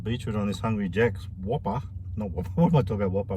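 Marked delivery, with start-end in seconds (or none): 2.2-3.3 laughing at himself. Real, not acted. Correcting his own slip, laughing.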